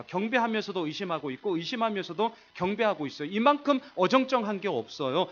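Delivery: ordinary delivery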